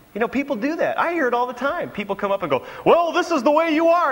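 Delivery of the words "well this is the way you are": presumptuous verdict. Retold or imitated. People telling pastor who he is.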